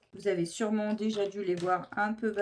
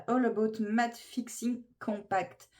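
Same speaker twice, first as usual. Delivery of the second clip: French speaker showing off an English accent, slowly; showy English accent; 2 semitones higher, 4 dB louder, slower than usual. Shown as a demonstration. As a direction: put on a proud English accent, lifting the last word. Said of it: "Admirez mon accent". (accent anglais appliqué et frimeur)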